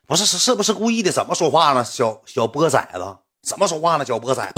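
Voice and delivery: mock angry retort. Rival confronts the apologizing narrator, mock angry retort. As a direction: act out a testy comeback, not shouted.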